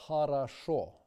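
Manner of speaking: хорошо with the unstressed o sounding like a; reduced unstressed o. Shown as a demonstration. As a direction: say хорошо as harasho, vowels reduced. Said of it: "Notice how we transliterate".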